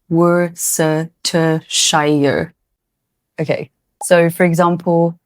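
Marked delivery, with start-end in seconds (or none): 0.1-2.5 Worcestershire said with every letter, WOR-ses-ter-shy-er; Worcestershire read as spelled, WOR-ses-ter-shy-er, slowly; wrong Worcestershire. Shown as a demonstration. Teacher shows the common mistaken Worcestershire. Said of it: "It's not pronounced".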